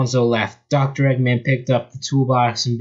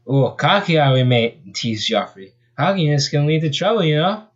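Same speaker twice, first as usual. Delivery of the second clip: put-on Australian accent; 4 semitones higher than usual. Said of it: "He spoke with an Australian accent".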